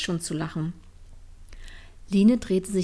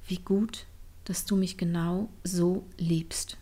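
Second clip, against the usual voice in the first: inner thought; 5 dB quieter than usual. Acted. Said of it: "Und Line dachte".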